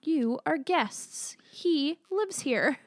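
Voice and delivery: slow, softened movie-character line; Bill's slow admonishment. Retold or imitated. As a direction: deliver it slowly and softly, word by word. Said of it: "he had such a deep voice".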